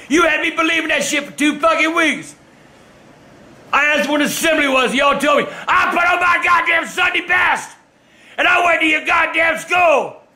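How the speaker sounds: angry shout. Real, not acted. Father ranting about being fooled.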